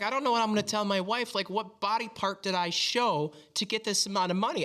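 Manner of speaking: high, stunned mock Australian voice; imitating Australian streamer. Retelling the streamer's joke about explaining the money, in a high mock Australian accent. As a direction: play the baffled streamer worrying about his wife. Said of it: "he's like".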